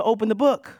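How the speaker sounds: emphatic preacher's push; emphatic urging. Real, not acted. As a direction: urge the congregation firmly, voice up. Preacher urges, then repeats it softly.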